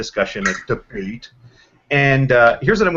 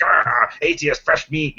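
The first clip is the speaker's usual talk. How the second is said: mock tough-guy pounce, higher pitch; Slick; 4 semitones higher, slower than usual. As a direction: pounce like a cartoon tough guy spotting prey. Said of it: "fancies himself such an intellectual tough guy".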